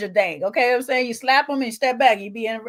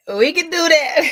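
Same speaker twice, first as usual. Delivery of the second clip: high laughing repeat; 8 semitones higher, 7 dB louder than usual. Real, not acted. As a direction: laugh through the words.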